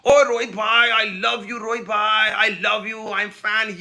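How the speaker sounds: lightly imitated Punjabi fan shouting his love; Punjabi fan style. Pakistani fan at the boundary calling to Rohit, mock Punjabi style. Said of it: "अपनी typical Punjabi style में".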